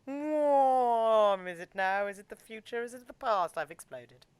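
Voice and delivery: dazed, high, wondering driver voice; crazed racing driver. Pretend. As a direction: play a spaced-out racer losing his mind. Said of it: "like, a crazed racing driver".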